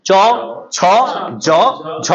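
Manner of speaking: চ ছ জ ঝ one by one, spaced out and clear; palatal letter demo. Shown as a demonstration. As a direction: set each of চ ছ জ ঝ against the palate. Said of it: "আবার দেখেন তালব্য বা তালু".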